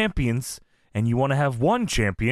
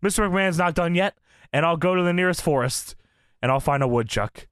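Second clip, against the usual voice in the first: Rock voice. Retold or imitated. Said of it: "I also wrote down The Rock in The Rock voice".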